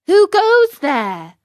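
high, loud, slow call into the dark; shouted. Acted. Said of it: "Once or twice he shouted".

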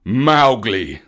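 loud, stern call of the name; stern storybook bear; angry bear. A narrator's reading. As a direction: summon the naughty pupil with weight. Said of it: "he could see the bear was angry".

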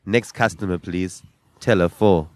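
flat cashier announcement; bored mechanical politeness. Shown as a demonstration. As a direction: read it like a weary till voice. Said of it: "Look into the camera and say".

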